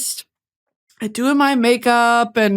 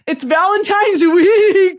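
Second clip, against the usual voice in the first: says it through real laughter, slower; laughing; 7 semitones higher, 4 dB louder than usual. Real, not acted. Laughing as the crowd gives no reaction. Repeats unnoticed Valentine's week line.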